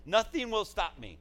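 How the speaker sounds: slow, loud, high declaration; imitated determination. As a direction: declare it defiantly, stretching the words. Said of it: "That's her determination".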